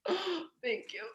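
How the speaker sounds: high, soft and breathy thank you after a gasp; be moved and caught off guard; touched surprise. Retold or imitated. To the boyfriend who can't stay away, high and soft.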